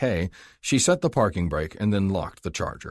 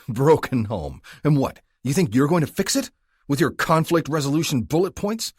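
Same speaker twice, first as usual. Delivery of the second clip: higher, louder mocking retort; scornful; 9 semitones higher, 6 dB louder than usual. A narrator's reading. Caleb mocking the rookie's excuse, scornful. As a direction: sneer at his naive idea.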